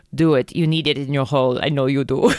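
low, lightly seductive read; a hint of a sultry lover. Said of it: "Marco's seductive voice".

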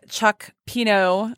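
Chuck Pino drawn out slowly, savoring each syllable; relish the name. Real, not acted. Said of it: "I love saying your last name".

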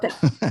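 "hotel" toneless, dropping the H to "oh-tel"; flat, silent H. Retold or imitated. Trainer showing how learners confuse listeners, "hotel" flat with silent H. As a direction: give "hotel" no melody and no H.

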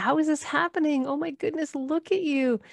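high astonished gushing; amazed delight. Retold or imitated. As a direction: marvel at a child you thought was gone. Mother's amazed words to child.

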